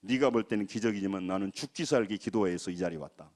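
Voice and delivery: understated retort kept to oneself; retold inner retort. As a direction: answer back silently in your head, pitched low. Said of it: "내 속으로 했어요".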